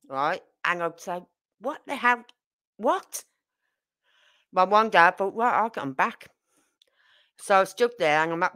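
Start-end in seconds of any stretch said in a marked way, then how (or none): 1.6-3.2 puzzled, rising "What?" in disbelief; baffled. Retold or imitated. Confused by Scottish sayings. 5.3-6.3 hushed plotting whisper; whispered scheme. Retold or imitated. Plotting revenge on coworkers.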